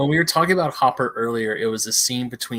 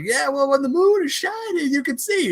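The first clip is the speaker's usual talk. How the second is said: put-on old-timer voice; 4 dB louder than usual. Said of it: "it's like".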